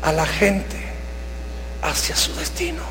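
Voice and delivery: soft, breathy whisper of conviction; almost whisper it to the flock; whispered tenderness. Acted. Pastor tells brothers about loving people, whispering.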